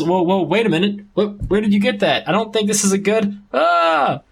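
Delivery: rising alarm ending in a high yelp; mock panic building to a cry; panicked protest. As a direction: back away from her, voice climbing to a shriek. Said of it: "he says".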